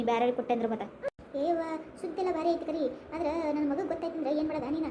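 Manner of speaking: a village elder talking granny into a marriage; village matchmaker. Acted. Visitor brings a marriage proposal. (ತಗ್ಗಿದ ಧ್ವನಿಯ ಊರಿನ ಹಿರಿಯ)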